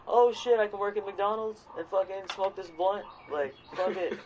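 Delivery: imitating a careless American slacker; mock slacker dude. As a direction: play a lazy guy who shrugs it off. Lazy Americans voiced mockingly.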